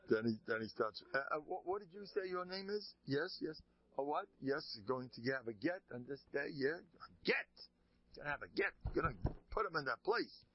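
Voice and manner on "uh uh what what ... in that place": distracted officiating rabbi. Rabbi resumes writing, distracted.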